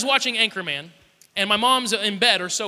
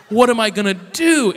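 loud, higher-pitched imitation of dismay; mock panic; 4 semitones higher, 11 dB louder than usual. Little brother hearing mum is upset, imitated loud panic. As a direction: wail it like a kid brother who is doomed.

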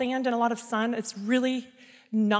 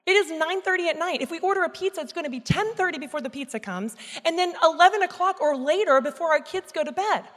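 higher, emphatic husband's protest; blunt objection; 5 semitones higher than usual. Retold or imitated. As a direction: lay out the objection without holding back. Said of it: "doesn't hold back, and he's like".

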